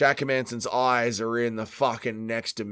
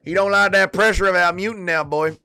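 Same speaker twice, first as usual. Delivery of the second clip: put-on Dustin Poirier accent; 5 semitones higher, 6 dB louder than usual. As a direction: cheer the fighter on in a Poirier-style accent. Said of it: "Dustin Poirier accent".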